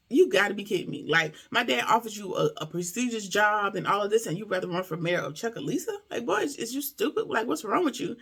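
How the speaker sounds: retold with attitude. Wife to husband running for mayor, retold with attitude. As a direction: act out her mild exasperation. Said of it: "she goes from begging and pleading to attitude".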